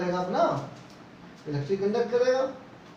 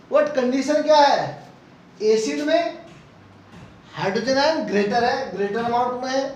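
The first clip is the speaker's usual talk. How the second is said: louder, pressing each point home to the class; emphatic lecturing; 2 semitones higher, 4 dB louder than usual. Real, not acted. Teacher stressing the rule to students, loud and emphatic. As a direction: drive the key facts home like a teacher at full volume.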